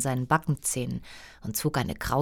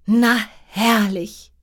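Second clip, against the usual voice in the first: slow sarcastic queen; drawn-out mock delight; evil queen; 5 semitones higher, 5 dB louder, slower than usual. Queen reacts to idle servants.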